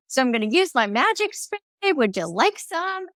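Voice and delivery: light, playful offer; playful sing-song invitation; playful and fun. Shown as a demonstration. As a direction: make it sound like a treat. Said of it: "Notice how my tone is like play and fun".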